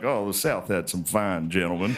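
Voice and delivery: a hint of a proud old Southern man; old Southern historian. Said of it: "he's like".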